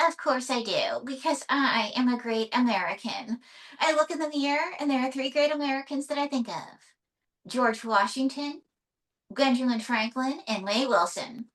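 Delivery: lightly voiced boastful puppet; a touch of grand puppet diva; puppet diva May, self-important. Puppet May counts herself among great Americans, mildly grand diva.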